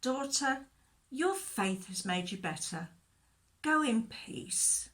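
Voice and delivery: gentle, measured reassurance; tender and unhurried; kindly. Acted. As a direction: bless her kindly, easing into slow final words. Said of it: "looked at her very kindly".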